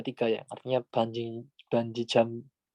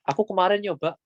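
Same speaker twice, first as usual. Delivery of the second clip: example sentence; 6 semitones higher than usual. Shown as a demonstration. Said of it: "gitu anggapannya".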